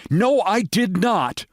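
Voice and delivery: firm, slow, each word set down; a decided no, lightly voiced; decisive. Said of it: "she said decisively".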